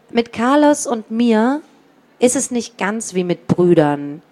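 put-on reading a children's book aloud; story narration. A narrator's reading. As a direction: tell it like a storybook. Author reads the book aloud.

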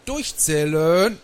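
long, slow, loud roll-call order; granny calling the whole bus to count off; called-out command. A narrator's reading. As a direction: stretch it out high and loud.

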